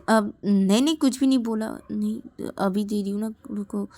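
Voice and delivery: hasty denial. Acted. Ananya hastily denies.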